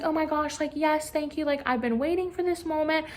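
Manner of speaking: put-on high, breathless gushing teen crush; mock-giddy girl thrilled her crush likes her back; giddy excitement. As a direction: squeal it out like a lovestruck freshman. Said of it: "and she's like".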